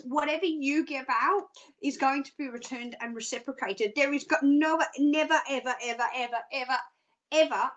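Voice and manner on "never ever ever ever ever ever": ever repeated with weight on each ever; emphasized ever. Shown as a demonstration. Psychic insists to Angela on never ever, each ever stressed. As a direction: hammer every ever in the chain. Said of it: "I emphasize the ever".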